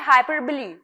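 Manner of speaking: हाइपरबली said as "hai-per-ba-lee"; हाइपरबली pronounced with a final ee; model pronunciation. Shown as a demonstration. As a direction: teach हाइपरबली, ending in "ba-lee". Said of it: "इस तरीके से इसे pronounce करना है".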